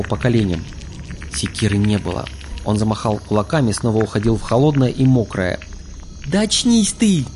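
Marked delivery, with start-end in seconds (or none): 6.3-7.2 high urgent yell; yelling in his ear. A narrator's reading. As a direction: shout him awake. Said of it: "заорала у него над ухом".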